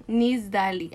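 "Nisdali" with a plain S. Shown as a demonstration. Confirming the mother's way of saying it, S pronunciation. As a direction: pronounce "Nisdali" with S, not SH. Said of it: "así con S".

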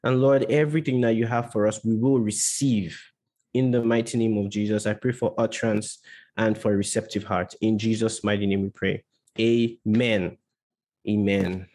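earnest, measured prayer voice. Real, not acted. Leads an opening prayer.

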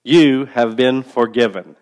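slow call-and-response line; broad singsong kids theatre. Shown as a demonstration. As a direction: lead the congregation, slow and clear. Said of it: "one more time with me".

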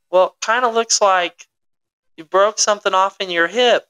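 retold tentative bafflement; confused doctor. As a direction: break odd news, lightly puzzled and high. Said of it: "super confused".

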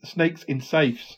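slow, slurred words through loose teeth; loose dentures. Real, not acted. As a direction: speak as if your dentures are slipping. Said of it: "put my teeth in".

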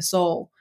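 "soul" for soil, long o without the oy glide; partner's Southern soil. Retold or imitated. Poet quotes partner's childhood memory, soil pronounced as "soul". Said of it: "He would say something like".

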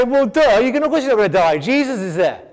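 fast, dismissive "well, duh" jab; mocking know-it-all. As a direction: scoff like it's obvious. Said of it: "We can say".

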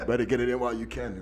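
rapid, giggly echo of the joke; laughing, joking advice said again; fast, laughing repeat. Real, not acted. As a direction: rattle it off while still laughing.

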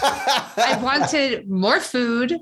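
slow, drawn out through laughter; laughing. Real, not acted. Teasing the author about her book, laughing slowly. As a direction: tease with a laugh.

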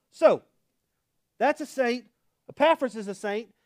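ordinary talk

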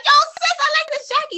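lightly acted burst of enthusiasm; excited compliment. Woman praising a stranger's jacket, hammed-up eager call.

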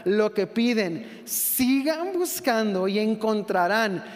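slow, measured reading of the verse; slow scripture reading. Acted. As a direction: read the words of Jesus slowly, with weight. Reads scripture slowly. (lectura lenta y solemne)

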